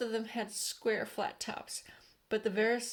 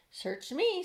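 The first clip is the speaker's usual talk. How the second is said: cheeky centipede; 9 semitones higher, 3 dB louder than usual. A narrator's reading. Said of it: "said the centipede".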